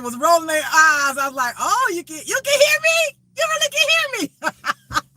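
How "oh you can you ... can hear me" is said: squeaky falsetto, laughing through it; high-pitched fake amazement with a laugh; mock surprise. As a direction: tease them in a sky-high voice. Mock-teasing the tarot reader.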